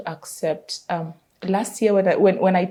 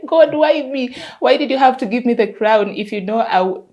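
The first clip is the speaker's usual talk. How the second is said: higher, louder plaintive wail, acted out; mock crying lament; 3 semitones higher, 5 dB louder than usual. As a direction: plead as if crying, half in earnest. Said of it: "then you start crying like".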